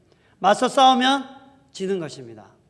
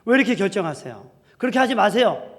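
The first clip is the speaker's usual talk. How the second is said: louder, higher protest, building to the last plea; wives demanding answers; 3 semitones higher, 8 dB louder than usual. Acted. Wives confronting husband over his decisions, demanding. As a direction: challenge him, pushing harder each time. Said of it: "아내들이 막 따집니다".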